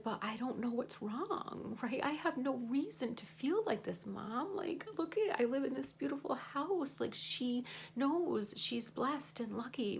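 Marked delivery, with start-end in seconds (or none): 0.0-7.0 daughter's voice. Retold or imitated. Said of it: "she said".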